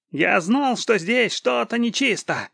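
high, loud wailing outcry; panicked wail. A narrator's reading. Captured spy hears of a mage, high panicked wail. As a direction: wail it out in alarm. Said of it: "завопил Ингольд".

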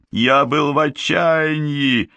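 high, drawn-out protest; desperate cry. A narrator's reading. Accused boy defends his betrayal, high desperate cry. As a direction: cry out in your own defence. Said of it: "закричал он".

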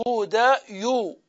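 هدى يو spelled out slowly as the original hudayun; deliberate slow هدى يو; slow original form. Shown as a demonstration. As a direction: say هدى يو slowly to show the hidden ya. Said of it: "أصلها هدى".

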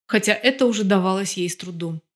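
usual speaking voice

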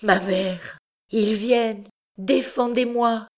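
high, frightened plea for protection; distressed cry. A narrator's reading. Egyptian girl begging her mother as soldiers come, distressed cry. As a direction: beg for help in rising panic. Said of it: "avec un inexprimable accent de détresse".

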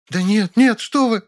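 high, frightened maid. Acted. Maid begs him not to call the police, frightened and high. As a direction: beg in a high scared voice. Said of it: "перепуганно".

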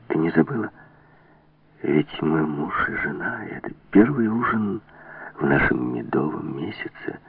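soft, timidly tender murmur; нежный шёпот. A narrator's reading. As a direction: lean in close and say it softly. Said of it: "с робкой нежностью во взгляде нагнулся к ней и прошептал". (негромко, с робкой нежностью)

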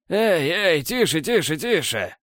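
repeated hushing, pitch stepping down; soothing. A narrator's reading. Borland calming the armed elf, soothing. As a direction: talk him down, starting high and settling. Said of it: "начал приговаривать Борланд, делая успокаивающие движения руками".

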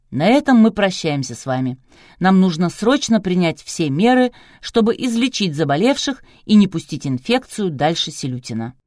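loud, emphatic sign-off speech; closing address. A narrator's reading. Producer turns to the cameramen for his closing speech, loud and official. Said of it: "выдал заключительную речь".

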